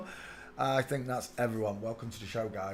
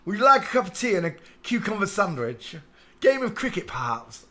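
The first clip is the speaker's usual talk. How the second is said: hammed-up posh English accent, raised and loud; mock posh English; 5 semitones higher, 7 dB louder than usual. Streamer imitating how Americans do English people, mock posh English accent. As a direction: parody the American idea of an Englishman. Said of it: "All Americans do that about English people".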